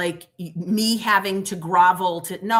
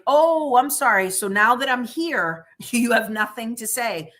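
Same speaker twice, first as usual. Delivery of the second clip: sarcastic; 4 semitones higher than usual. Retold or imitated. To the silent officers, a sarcastic mock apology. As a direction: fake sorry, daring them to speak. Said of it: "So I'm like".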